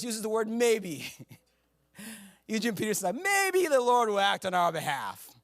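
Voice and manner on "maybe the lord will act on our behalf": uninspiring. Retold or imitated. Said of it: "that's not very inspiring".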